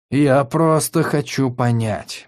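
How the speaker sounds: gentle. Acted. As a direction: coax him kindly. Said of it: "мягко сказал целитель".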